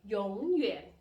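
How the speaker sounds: emphatic 永远 with changed first tone; second-tone change. Shown as a demonstration. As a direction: lift 永 upward, then dip on 远. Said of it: "change the first character into the second".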